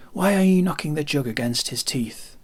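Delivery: snapping at the clumsy sailor; angry. Acted. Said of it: "said Gusoff angrily".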